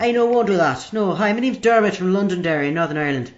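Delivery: put-on Derry caller accent; Northern Irish phone-in caller. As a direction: play a fan from Londonderry. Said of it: "I think the accent threw me slightly".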